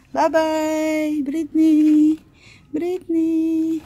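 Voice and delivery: singsong, long-held vowels; drawn-out calling; mock farewell call. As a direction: stretch out each word as a teasing call. Pretend farewell, calling the name.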